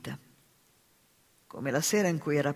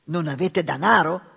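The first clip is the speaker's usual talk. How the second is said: shocked outcry, louder; cry out; 9 dB louder than usual. Acted. The sisters crying out together at Babette's news. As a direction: gasp it out in alarm. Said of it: "gridarono le sorelle".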